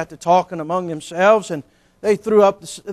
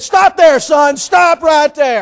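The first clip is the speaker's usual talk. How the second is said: louder, firm, slowing down: stop there, son; stern stop; 8 semitones higher, 8 dB louder, slower than usual. Retold or imitated. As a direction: cut him off like a stern father. Father stopping son's bragging.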